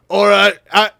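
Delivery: put-on loud try at a Boston cop accent; attempted Boston accent. Voicing a game detective, rough Boston accent. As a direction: have a go at Boston. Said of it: "give this guy a Boston accent".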